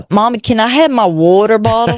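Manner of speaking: imitating a small girl's half UK accent; a light British child's voice, asking politely; little girl's British accent. Mother quoting her little girl with a British lilt. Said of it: "that was pretty good there on your part".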